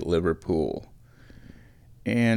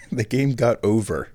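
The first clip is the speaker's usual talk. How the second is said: amused at his own dialect; laughing at himself. Real, not acted. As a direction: repeat it through a chuckle. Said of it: "Nebraskan accent thing".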